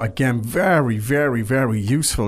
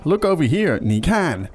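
excited call; 4 semitones higher than usual. Retold or imitated. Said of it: "you want to tell your friends".

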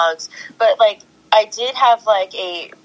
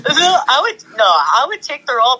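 laughing protest; 5 semitones higher than usual. Real, not acted. Answering the Cruella joke, laughing and insistent.

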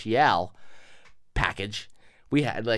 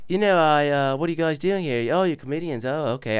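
hammed-up Liverpool accent like a famous singer. Nosy stranger meeting comedians, mock singer's accent. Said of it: "doing this fucking accent".

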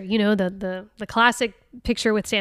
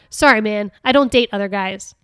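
louder, cocky retort; loud comeback; 6 dB louder than usual. Retold or imitated. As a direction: fire it back loud and cheeky. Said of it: "I should have said real loud".

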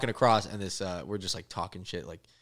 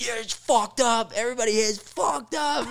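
imitating the local; 8 dB louder than usual. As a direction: play the beaten local conceding. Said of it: "the guy goes".

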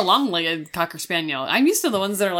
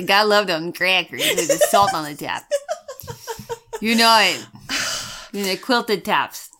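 put-on Wisconsin accent. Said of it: "I love that accent".

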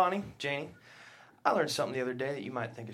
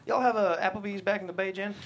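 loud, higher, eager small-town dad; loud folksy question; 7 semitones higher, 4 dB louder than usual. Acted. Dad booming a question at dinner to Jennifer. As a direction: boom it out across the table.

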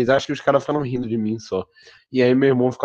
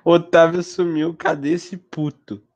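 slow, mocking repeat of a friend; mocking echo; slower than usual. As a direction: drag out the friend's complaint slowly. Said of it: "repeating Kevin's words".

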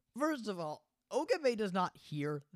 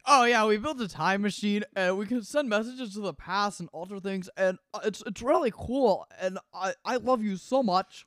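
hammed-up eager babble, louder and higher at peaks; imitating an overeager, lovestruck blurter; mock gushing; 3 semitones higher, 6 dB louder than usual. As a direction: gush like a smitten fanboy. Acting out Daru gushing to Ferris.

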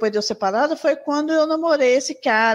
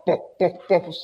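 low popping "pó" with each step; imitated fart pops; 6 semitones lower than usual. Telling how she farted while walking, imitated pops. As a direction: imitate little farts, one per step. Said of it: "começava a dar os passos".

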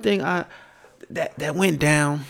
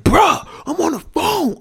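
much higher, louder snapped reply; irritated brother; 8 dB louder than usual. Retold or imitated. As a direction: bark back annoyed at being interrupted. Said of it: "He like".

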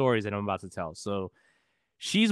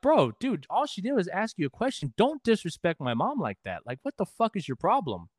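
heated retort; 5 semitones higher than usual. Retold or imitated. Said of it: "I'm like".

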